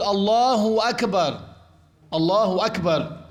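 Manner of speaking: الله أكبر said as "اللهو أكبر" with a waw slipped in after الله; mock wrong takbir "اللهو أكبر"; wrong added waw. Shown as a demonstration. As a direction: join الله and أكبر with a clear "و" sound. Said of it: "كأن يقول".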